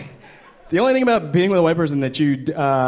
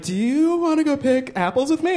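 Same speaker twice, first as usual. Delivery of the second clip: mock wife; 11 semitones higher than usual. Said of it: "she was like".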